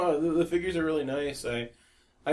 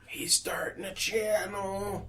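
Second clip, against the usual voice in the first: whisper; 6 semitones higher, 7 dB quieter, much slower than usual. Real, not acted. Aside to the audience.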